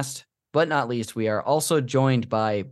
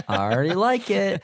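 excited; 7 semitones higher than usual. Real, not acted.

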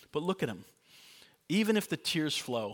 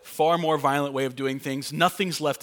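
laughing; 6 dB louder than usual. Real, not acted. Laughing at dynamite joke.

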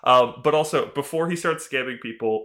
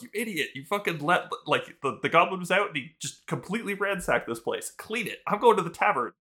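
higher, furious rant at a careless helper; angry scolding; 4 semitones higher than usual. Retold or imitated. Mentor scolding his apprentice for letting the goblin wreck the shop, angry and high. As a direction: chew him out, pitch up, then storm off. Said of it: "He's like".

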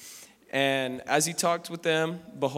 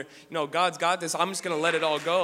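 starts lively and swells to a loud, fervent cry; rising preacher fervor, higher and louder toward the end; building to excited shout; 4 semitones higher, 6 dB louder than usual. Acted. Young preacher urging the church to trust God, building to a loud fervent cry.

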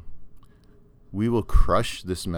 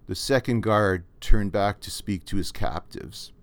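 measured storytelling read; story narration. A narrator's reading. Author reading his story to viewers, measured. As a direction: read the story out steadily to listeners.

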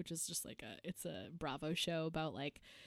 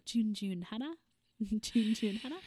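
put-on Australian accent; 3 semitones higher than usual. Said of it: "we go".

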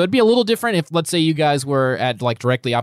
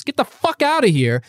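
snarling dismissal; 9 semitones higher than usual. Acted. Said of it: "and Jolene says".

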